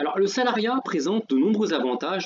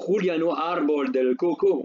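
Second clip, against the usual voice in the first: Spanish place name; 3 semitones higher than usual. Real, not acted. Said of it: "excusez-moi pour mon accent".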